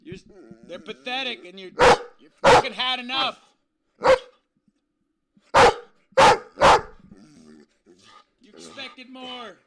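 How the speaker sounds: high, squeaky voice egging the dog on; squeaky dog-prompting voice. Pretend. Streamer goads his barking dog to tell off chat, high and squeaky. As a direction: hype the dog up in a silly high voice.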